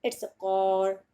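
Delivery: slow American "कॉर" with the r sounded; American accent, "कॉर" ending in a clear r; American pronunciation. Shown as a demonstration. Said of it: "कोई American आपको मिल गया तो वो इसको बोलेगा".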